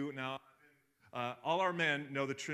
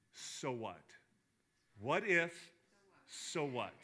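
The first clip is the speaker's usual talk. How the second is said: dismissive; slower than usual. Shown as a demonstration. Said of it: "practice this exercise".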